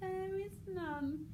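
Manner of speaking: slow, high sinister line; cold evil. Shown as a demonstration. King threatening the girl with a dagger, slow and evil. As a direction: press the dagger and savour it. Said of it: "dagger on the cheek".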